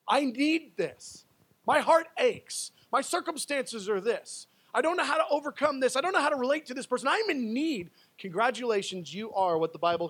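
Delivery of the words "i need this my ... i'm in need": raised, pleading voice of someone in need; needy believer. Acted. Preacher voices the listener in a moment of need, pleading. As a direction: act out someone overwhelmed by their need. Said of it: "you are the one the Bible is talking about".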